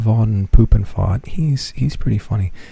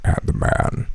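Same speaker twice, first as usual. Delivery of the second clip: much lower, gravelly rumble; Kratos voice. Retold or imitated. Kratos delivering his line, deep and grave. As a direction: intone it like the god of war.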